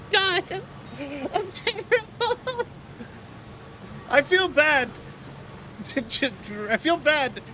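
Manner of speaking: high, helpless real laughter through the words; laughing, embarrassed self-reproach; guilty laughing. Real, not acted. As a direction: squeak it out while laughing at yourself. Guilty laughing at own accent habit.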